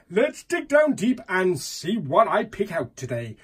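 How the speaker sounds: put-on lapse into an American accent; lively put-on American accent. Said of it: "talking in an American accent".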